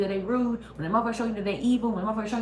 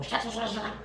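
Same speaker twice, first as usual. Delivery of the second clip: sword swoosh sounds; 3 semitones higher, 4 dB quieter than usual. Retold or imitated. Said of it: "your sword and go".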